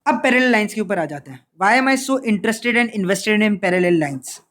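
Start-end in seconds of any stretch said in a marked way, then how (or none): 1.6-4.4 slow rhetorical question. Shown as a demonstration. Teacher poses rhetorical question.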